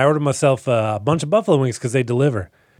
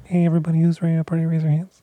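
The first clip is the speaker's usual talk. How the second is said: rowdy party animal; 4 semitones higher, faster than usual. Pretend. Rowdy DJ hype.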